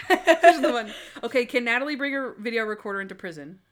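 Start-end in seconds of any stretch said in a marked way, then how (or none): 0.1-0.9 loud, high laughing mimicry; mock smug quote. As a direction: tease him with a gleeful voice. Mocking friend's smug pick.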